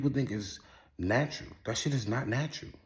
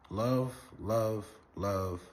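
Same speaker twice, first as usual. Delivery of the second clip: fading blessing; 4 semitones lower, 5 dB quieter than usual. Real, not acted.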